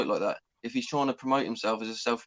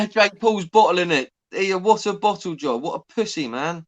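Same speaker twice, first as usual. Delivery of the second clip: laughing, louder, scornful jeer; laughing mockery; 4 semitones higher, 6 dB louder than usual. Real, not acted. Mocking a boxer to mates, laughing. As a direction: scoff at Jake through a laugh. Mocking Jake Paul's performance.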